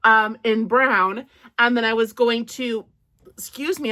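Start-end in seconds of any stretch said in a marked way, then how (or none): 1.6-2.8 talking through real hiccups; words broken by a hiccup. Real, not acted. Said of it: "I have the hiccups".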